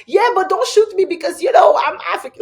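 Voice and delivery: high, laughing outburst. Real, not acted. Laughing joke about being shot.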